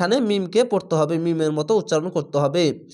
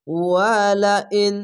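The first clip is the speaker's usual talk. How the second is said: Quran recitation; much slower than usual. Shown as a demonstration. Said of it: "হামজা নুন জের ইন".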